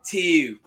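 "Two" as a high, loud "tee-ew"; Baltimore accent. Retold or imitated. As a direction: call out "Two" with a fronted Baltimore vowel. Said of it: "That's how they say it".

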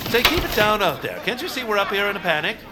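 calling down. Acted. Baron scolding the crowd below, indignant shout.

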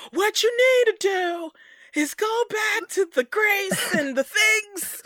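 high, slow, loud mock Billy. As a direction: ham up Billy's lecturing tone. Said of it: "He was just like".

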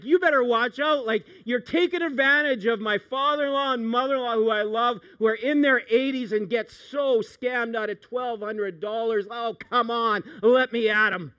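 playful tough-guy threat to a phone scammer; mock threat. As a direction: square up to the scammer.

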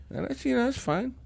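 sarcastic shrug of a line; sarcastic "that's fine". Real, not acted. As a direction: toss it off as if it doesn't matter. Ranting about tyranny, mock acceptance.

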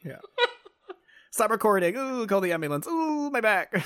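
moaning in pain like Grape Lady. Pretend. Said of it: "I feel like Grape Lady".

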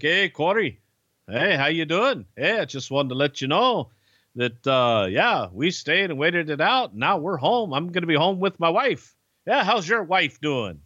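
hint of a cheerful Pete calling to gloat; Pete on the phone. Pete's phone call retold.

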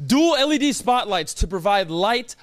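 slow, sultry product pitch; ad read. Acted. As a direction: linger on each feature. Reads ad copy.

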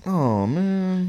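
drawn-out, high, deflated groan; mock dismay. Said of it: "he's like".

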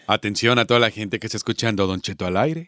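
sexy voice. Shown as a demonstration. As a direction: purr it out low to the listeners. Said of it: "voz sexy".

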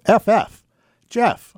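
high, bright burst of remembering; sudden recognition. Retold or imitated. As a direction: let the light go on in his voice. Father suddenly remembers name.

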